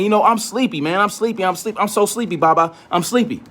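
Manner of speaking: a lightly voiced sleepy toddler; imitating sleepy child. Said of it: "instead of my child saying".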